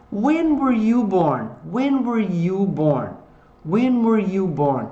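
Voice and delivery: "When" lifted and stretched, falling slowly to "born"; stress on WHEN. Shown as a demonstration. Teacher models a birth question, stress on "When". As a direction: lean hard on "When", glide down. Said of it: "a entonação tá nas palavrinhas com W H".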